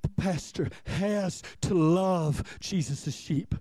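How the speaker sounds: "has to love" spaced out slowly; slow, deliberate emphasis. Shown as a demonstration. Pastor laying down his duty to the congregation, slow and deliberate. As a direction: weigh out each word of "has to love".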